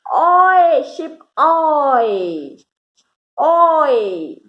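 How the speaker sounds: loud high call of Oy across water; hailing call. Shown as a demonstration. Teacher hailing a passing boat, loud and high. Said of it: "as if you are hailing a passing boat and says".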